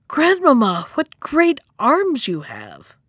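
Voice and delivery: high, drawn-out wonder; little girl's wide-eyed amazement; greatly amazed. Acted. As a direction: marvel slowly at what you see. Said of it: "being greatly amazed".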